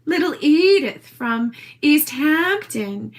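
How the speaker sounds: slow, put-on East Hampton accent; Little Edie. Retelling her prank, in an affected East Hampton accent. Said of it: "talking like I was Edith".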